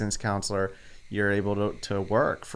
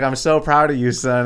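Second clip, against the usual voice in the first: loud mock-proud mom, raised pitch; imitated proud mother; 3 semitones higher, 9 dB louder than usual. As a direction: play a mother gushing to her son. Voicing mom's rare praise.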